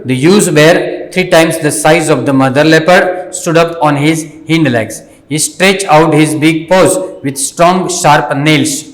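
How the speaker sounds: slow, carefully paced reading aloud for learners; slow story reading. Shown as a demonstration. Teacher reading the story slowly to the students. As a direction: read each word out slowly and clearly.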